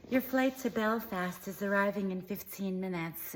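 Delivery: lightly voiced airport announcer with a put-on twang; mock announcement in a mild affected twang; annoying twang. Mocking an airport announcer, a hint of twang. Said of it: "in that annoying gay twang".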